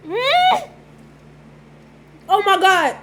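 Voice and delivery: high delighted moan of pleasure; savoring delicious food. Real, not acted. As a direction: react to an amazing first bite. Bites broccoli, loves it.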